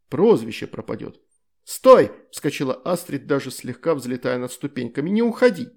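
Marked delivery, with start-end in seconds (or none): 1.6-2.1 sudden high loud cry; shout to stop him. Acted. Astrid jumps up to stop him. 5.1-5.7 high loud plea; calling after him. Acted. Astrid begs him to stay.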